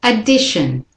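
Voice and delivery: "Addition" said with schwa start, weak shun; repeat-after-me model. Shown as a demonstration. Teacher says it with the learners, weak shun ending. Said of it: "Say it with me".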